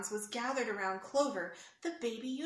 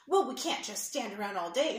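louder grumpy huff; 5 dB louder than usual. Acted. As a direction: huff it out impatiently. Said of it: "huffed a grumpy leprechaun".

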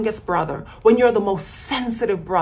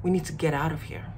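urgent hush; 7 semitones lower, 8 dB quieter, much faster than usual. Retold or imitated. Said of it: "that's what Harry said".

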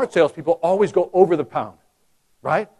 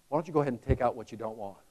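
soft, quick easy offer; soft sales pitch; 6 semitones lower, 11 dB quieter, faster than usual. Retold or imitated. Salesman sliding the paper back, soft easy offer. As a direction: offer it lightly, no pressure. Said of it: "Here's what I always did".

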